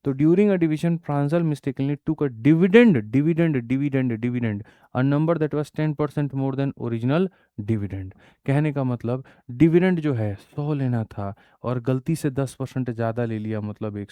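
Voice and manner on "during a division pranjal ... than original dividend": slow, deliberate reading of the question; measured classroom read-aloud. Acted. Rereads the English question slowly.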